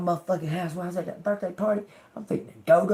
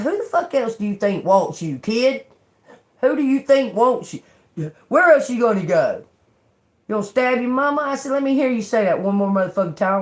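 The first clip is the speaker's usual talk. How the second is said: retold scolding; 5 semitones higher, 4 dB louder than usual.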